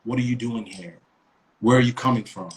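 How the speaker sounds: cop interrogating. Retold or imitated.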